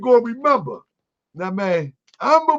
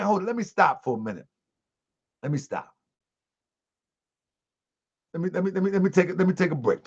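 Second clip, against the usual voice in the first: softer, muttering to self while stopping; quiet aside; 2 semitones lower, 7 dB quieter, faster than usual. Real, not acted. Stops mid-sermon, off-mic aside.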